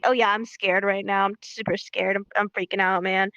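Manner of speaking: low, unbothered claim of being scared; mock super confident. Shown as a demonstration. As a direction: play it cool, no fear at all. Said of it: "super confident looking".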